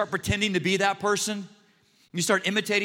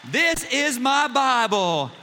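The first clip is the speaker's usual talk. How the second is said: slow and louder, mock congregational chant; Joel Osteen confession; 4 semitones higher, 3 dB louder, slower than usual. Pastor mimicking Joel leading the Bible confession, louder and slow. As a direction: lead the crowd in a hammed-up creed. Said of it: "talk with a Texas twang like Joel".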